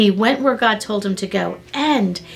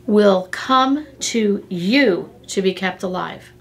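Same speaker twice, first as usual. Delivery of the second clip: scripture reading. Shown as a demonstration. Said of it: "I want you to catch this".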